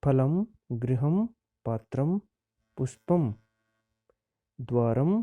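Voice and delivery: each Sanskrit word said clearly with a pause after it; careful word-by-word model reading; pronunciation drill. Shown as a demonstration. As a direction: read out the word list like a teacher modelling फलम, गृहम. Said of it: "उच्चारणम कुरुत, उच्चारण करना है".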